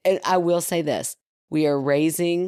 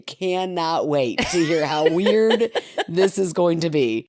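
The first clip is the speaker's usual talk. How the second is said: slow, laughing delight; excited kid laughing; slower than usual. Retold or imitated. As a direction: savor it through laughter. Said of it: "he's so excited".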